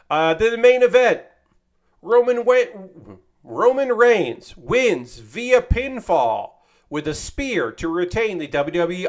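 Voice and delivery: hyped announcement. Acted. Reading out the main event winner to the audience, hyped and slow. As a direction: sell the main event win like a hype man.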